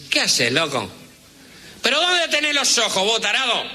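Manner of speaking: porteño cabbie yelling, pitch way up; furious cabbie berating a bus driver; angry taxi driver. Retold or imitated. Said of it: "con otro acento y dice". (taxista porteño furioso, voz muy aguda)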